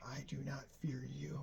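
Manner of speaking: frightened whispered defiance. Retold or imitated. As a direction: breathe it out, voice failing. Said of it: "and he says".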